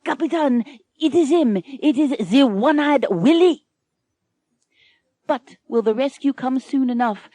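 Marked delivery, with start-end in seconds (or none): 0.0-3.6 higher, louder cry down from the crow's nest; watchman yells. Acted. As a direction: shout the alarm from the mast. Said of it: "spies the pirate ship and yells down".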